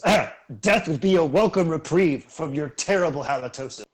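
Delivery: lightly voiced gnome, dry and mocking; a sly jab delivered with a smirk; snide gnome retort. Gnome mocking the threatening player, dryly amused. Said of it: "gives a faint chuckle and goes".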